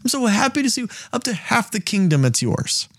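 very high, gushing king voice; giddy king. Retold or imitated. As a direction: overdo the besotted king. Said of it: "He's like".

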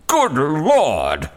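staggered cry. Acted. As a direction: gasp it out in disbelief. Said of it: "he cried out".

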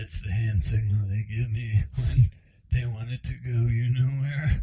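lightly voiced tired old man; a slow, halting hint of an old man. Joking about a hand signal, lightly voiced old man. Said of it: "I can just do one tired old man".

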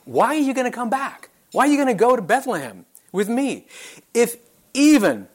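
Naomi. Acted. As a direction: plead like a woman reasoning with her daughters-in-law. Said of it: "she is saying".

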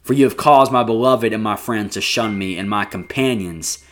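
measured, heavy reading of a lament; scripture reading. Acted. Reads lament psalm aloud.

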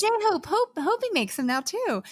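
hammed-up excited fan voice, pitched high; gushing fan. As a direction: imitate a giddy fan spotting bracelets. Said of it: "you're like".

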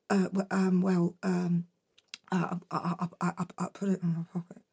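soft, fast, mumbled confession; boy confessing to mum; guilty mumble. Acted. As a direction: hide the words, quick and quiet. Jack confessing, scared.

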